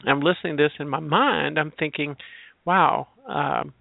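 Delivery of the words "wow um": sarcastic. Retold or imitated. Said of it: "I'm being sarcastic now a little bit".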